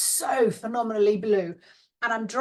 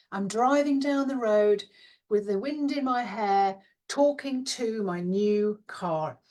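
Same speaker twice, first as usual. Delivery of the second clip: ordinary delivery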